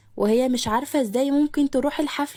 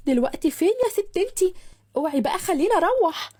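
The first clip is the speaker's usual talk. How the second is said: loud without meaning to; 5 semitones higher than usual. A narrator's reading. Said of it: "قالت صاحبتها بصوت عالي".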